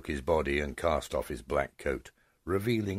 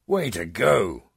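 cheer; 5 semitones higher, 8 dB louder, slower than usual. Acted. Cheering a friend's rescue kick.

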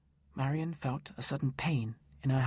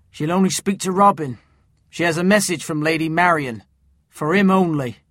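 urgent; 6 semitones higher, 9 dB louder than usual. Acted. Will insisting on the message.

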